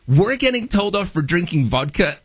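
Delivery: laughing, incredulous, pitch jumping up at the end; amused, mock-outraged retelling; laughing disbelief. Retold disbelief at Russian police.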